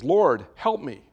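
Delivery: loud, slow cry to the Lord; desperate plea. Acted. Man dangling from a branch cries loudly to God. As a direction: beg for rescue from the cliff. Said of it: "The man says".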